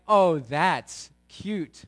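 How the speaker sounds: slow, sing-song big-brother ribbing; teasing the new car in the driveway; mocking brothers. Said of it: "And they're like".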